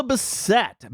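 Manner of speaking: Bassett stressed on the end, "buh-SET"; guessed pronunciation. Shown as a demonstration. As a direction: hit the second syllable of Bassett. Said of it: "however the hell you".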